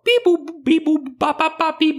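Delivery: very high droid beeping; R2-D2 beeps. Retold or imitated. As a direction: chirp it like a little robot. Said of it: "he's all".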